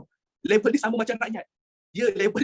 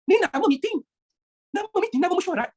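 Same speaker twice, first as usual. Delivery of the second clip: hammed-up grand announcement; 9 semitones higher, 3 dB louder than usual. Teacher presenting a meeting name, hammed-up grand tone.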